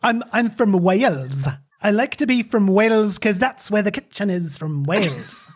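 put-on Welsh accent. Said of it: "he's trying to do, um, a Welsh accent".

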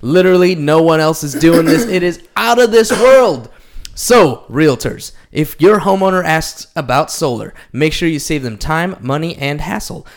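upbeat sponsor ad read. Acted. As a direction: pitch the product with energy. Reads sponsor ad copy.

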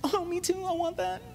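high, small whiny voice; hammed-up high-pitched wanting; mock envious whine. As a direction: pipe up softly like a jealous kid. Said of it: "That's what you sound like".

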